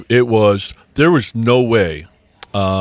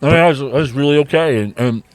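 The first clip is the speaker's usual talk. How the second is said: mouth full; 4 semitones higher than usual. Real, not acted. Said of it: "sorry, I got a muffin in my mouth".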